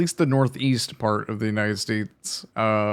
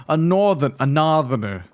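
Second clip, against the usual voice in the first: northerner accent. Shown as a demonstration. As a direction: drop the R in "northerner". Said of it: "a northerner accent".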